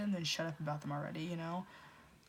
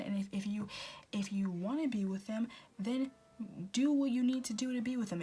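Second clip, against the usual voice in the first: fed-up friend ranting, voice pitched up; exasperated rant; 2 semitones higher than usual. Retold or imitated. A friend scolding their moping pal, fed-up rant. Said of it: "They're probably just like".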